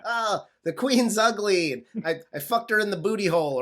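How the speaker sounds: hammed-up British taunt that speeds up; British accent. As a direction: put on a British accent to insult the Queen. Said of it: "you did an accent there either".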